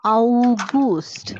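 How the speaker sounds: breathy whispered August; whispered German August. Shown as a demonstration. Teacher whispering German word to learners. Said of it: "we pronounce it as au".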